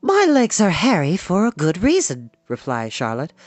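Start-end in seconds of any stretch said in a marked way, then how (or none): 0.0-2.3 higher, instructive spider voice; precise spider. A narrator's reading. Spider explaining her hairy legs to the pig, high knowing voice. Charlotte the spider answers Wilbur.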